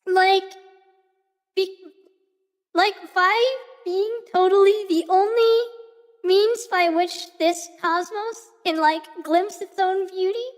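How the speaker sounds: put-on bubbly valley girl, stretching every totally. Shown as a demonstration. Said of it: "I don't have to talk like that anymore".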